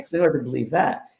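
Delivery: ordinary talk, nothing marked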